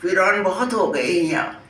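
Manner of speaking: measured mushaira verse reading; poem recitation. Acted. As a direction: recite the couplet line by line, pausing between lines. Recites her flood poem. (शायरी सुनाने का अंदाज़)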